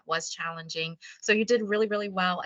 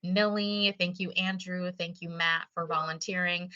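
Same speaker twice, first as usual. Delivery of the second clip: usual speaking voice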